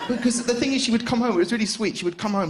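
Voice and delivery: normal talking voice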